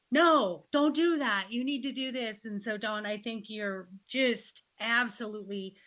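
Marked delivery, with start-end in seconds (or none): 0.1-2.4 scolding no. Retold or imitated. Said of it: "to not say".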